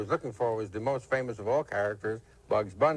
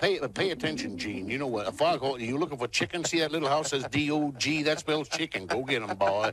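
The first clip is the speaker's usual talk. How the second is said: put-on southern-accented chicken voice, higher pitch; 2 semitones higher than usual. Listing favorite cartoon characters, the speaker launches into a Foghorn Leghorn voice. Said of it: "another chicken from the South".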